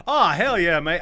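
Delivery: loud, high Aussie cheer; bad Australian accent. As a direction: attempt a hammed-up Australian accent. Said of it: "I can't do an Australian accent".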